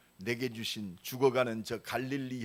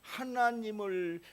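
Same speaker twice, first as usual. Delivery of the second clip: drawn-out emphasis; 10 semitones higher, 3 dB louder, much slower than usual. Acted. Stretches God's name in sermon.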